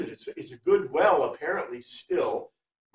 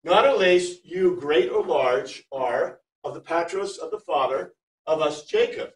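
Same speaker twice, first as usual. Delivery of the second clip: "Not unless you great or large are" read slowly, word by word; slow literal reading; 4 dB louder than usual. Shown as a demonstration. Teacher reading the literal Greek to the class, slow and deliberate. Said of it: "Let's see what it says in Greek".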